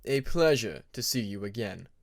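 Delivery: low, polite, reserved voice; courteous Winter. Acted. Winter greeting Moon with restrained courtesy. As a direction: keep it polite and composed. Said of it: "courteous nod of his head".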